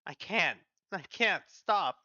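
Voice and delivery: rising to a high, loud stop; desperate pleading. Acted. Patient unable to bear the procedure, desperate pleading. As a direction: beg as the pain builds.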